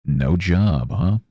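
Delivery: skeptical voice squeaking way up on three years; incredulous interviewer, pitch shooting high; mock hiring manager. Job interviewer sneering at a jobless applicant, high incredulous voice. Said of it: "they very well might look at me and be like".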